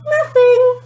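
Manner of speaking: high, loud, too-quick denial; innocent nothing. A narrator's reading. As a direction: cover up the secret. Kerry hiding her plan.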